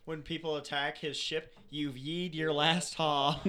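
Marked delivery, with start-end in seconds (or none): 1.7-3.4 slow cowboy pirate. Pretend. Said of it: "This captain just".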